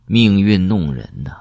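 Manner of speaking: slow rueful chuckle into a sigh of fate; self-mocking laugh. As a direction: laugh at yourself, then lament it slowly. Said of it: "他自嘲地笑了笑". (自嘲地笑着慢慢感叹)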